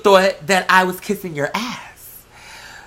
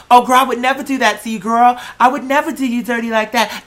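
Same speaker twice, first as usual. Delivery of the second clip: higher, fast, sugary fake-sorry voice; mock fake innocence; 4 semitones higher than usual. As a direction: mimic her pretending she'd never do wrong. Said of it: "her pretending like".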